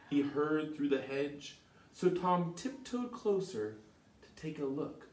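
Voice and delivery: lively read-aloud narration; storybook narration. A narrator's reading. Reading Tom's tale to children, lively storytelling. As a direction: tell it like a bedtime story.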